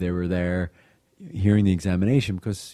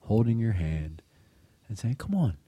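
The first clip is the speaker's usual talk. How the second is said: gently coax, lifting the pitch; gentle voice; 2 semitones higher than usual. Retold or imitated. Aunt reassuring a nervous girl before confession, gentle voice. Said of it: "in her gentle voice said".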